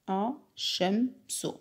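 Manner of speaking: الشمس slowly, lam silent and the shin doubled. Shown as a demonstration. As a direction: stretch الشمس with no lam heard. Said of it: "هل اللام هنا أتلفظ به". (نطق الشمس ببطء دون لام)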